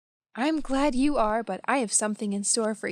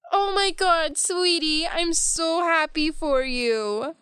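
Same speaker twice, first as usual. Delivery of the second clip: high, gushing delight; thrilled and proud, voice raised high; overjoyed mother; 6 semitones higher, slower than usual. Acted. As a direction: gush with happiness, drawing out the last words.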